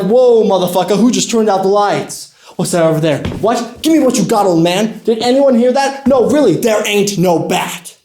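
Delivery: mildly hammed-up startled street thugs; lightly voiced jumpy goons. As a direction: act out rattled crooks calling to each other. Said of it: "And they're like".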